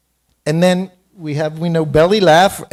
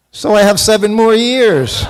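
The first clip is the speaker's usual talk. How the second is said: laughing; 5 semitones higher, 6 dB louder than usual. Real, not acted.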